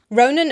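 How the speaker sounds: RONAN with a long "aw" in the stressed second syllable; two-fada pronunciation. Shown as a demonstration. Teacher giving the name's original form, long-vowel "ro-NAWN" Ronan. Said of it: "had two fadas and was Ronan".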